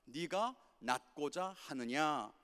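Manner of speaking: slow, gentle question, each word weighed; Jesus asking slowly. Retold or imitated. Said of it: "예수님께서 이렇게 말씀하십니다". (병자에게 천천히 묻는 예수님)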